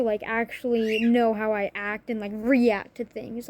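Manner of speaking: mock telling-off, emphatic but not shouted; imagined scolding. Daughter silently rebuking her biological mother, imagined indignant scolding. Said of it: "In my head, I'm screaming at this woman".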